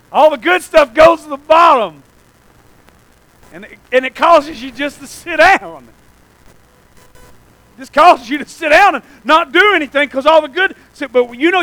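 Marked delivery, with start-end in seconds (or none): 0.1-2.0 preaching shout. Acted. Preaching at full force. 7.8-10.7 preaching shout. Acted. Preaching at full force.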